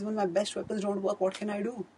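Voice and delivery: helpless warrior asking why; a touch of desperate frustration; frustrated despair. Retold or imitated. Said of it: "he was frustrated".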